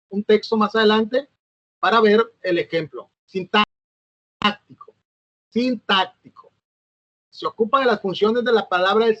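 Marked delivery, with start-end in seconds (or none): 3.3-4.9 sintáctico drawn out very slowly, syllable by syllable; sintáctico spelled out in a slow, stretched dictation; slow stretched term. Shown as a demonstration. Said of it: "term read out for the class". 5.5-6.5 sintáctico said again, a little less stretched and falling; sintáctico restated more normally with falling tune; repeated term. Shown as a demonstration. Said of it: "term repeated for the class".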